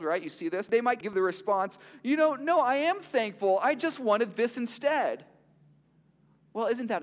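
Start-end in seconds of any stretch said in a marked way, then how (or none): 2.0-5.3 mock spoiled kid, pitched up and pouting; whiny fake gratitude, higher and louder; spoiled ungrateful reply. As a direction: act out an entitled reluctant thanks, higher. Spoiled gift receiver's response.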